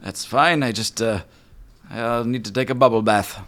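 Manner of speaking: high, loud genie voice; huffy high genie. Acted. The genie answers Snack, high and loud.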